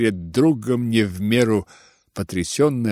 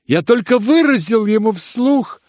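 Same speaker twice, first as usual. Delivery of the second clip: mocking, high-pitched; 10 semitones higher, 4 dB louder than usual. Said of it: "тем же насмешливым тоном".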